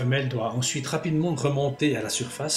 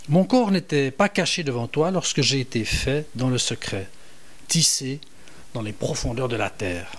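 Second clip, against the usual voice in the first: psalm reading; 2 semitones higher than usual. Shown as a demonstration. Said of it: "Je vous en lis quelques extraits".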